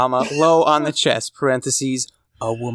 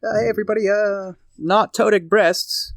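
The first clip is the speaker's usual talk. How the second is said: creepy sideline reporter; 8 semitones higher than usual. Pretend. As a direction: play the creepy little sideline guy.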